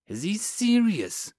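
high, slow, unbelieving question; incredulous. Acted. Sergeant reacting to lieutenant's order, incredulous. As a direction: say it in stunned disbelief.

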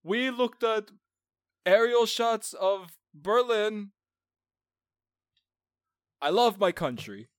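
high, slow put-on German accent; a proud Nazi bragging, in a German accent. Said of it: "That was my German accent".

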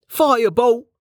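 loud, high battle cry; spell shout. A narrator's reading. Kettle casting a firebolt at the buckets, shouted. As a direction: bark the spell name out.

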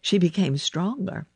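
ordinary delivery

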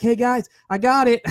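high, playful victory announcement; mock triumph. Imagines announcing his future win.

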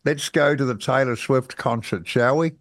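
lightly put-on mocking politician voice; piss-take politician voice. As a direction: send up a politician, half-hearted. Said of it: "take the piss politician's voice".

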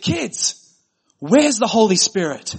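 put-on high-pitched call to the kids; exasperated mother. Fed-up mother to fighting kids in the car, exasperated. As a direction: imitate a fed-up mum calling her children. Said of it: "she'd had enough this night".

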